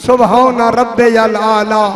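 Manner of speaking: the imam's prayer heard through the wall. Acted. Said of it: "आवाज आ रही थी". (हल्की ऊँची आवाज़ में दुआ)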